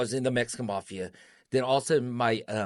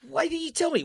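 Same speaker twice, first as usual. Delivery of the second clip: hurt outburst; 4 dB louder than usual. Retold or imitated. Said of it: "I go".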